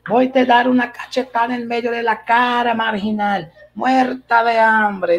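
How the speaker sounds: high, hammed-up villainess tirade; imitated Mexican soap-opera outburst; telenovela threat. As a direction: throw the threat out with mock fury, stretching the final insult. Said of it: "Assistindo novelas mexicanas".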